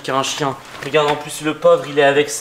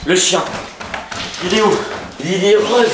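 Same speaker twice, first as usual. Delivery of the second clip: calling out; 4 semitones higher than usual. Acted. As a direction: shout to get attention. Calling out to find someone.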